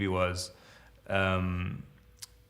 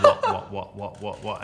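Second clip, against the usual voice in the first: mock shouted whats; 4 dB louder than usual. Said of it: "just saying".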